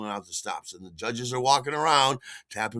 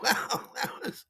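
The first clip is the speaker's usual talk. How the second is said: breathless, higher, unvoiced trailing words; stunned breathy half-whisper; dumbstruck; 12 semitones higher than usual. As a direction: left speechless by the star. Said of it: "And I'm like".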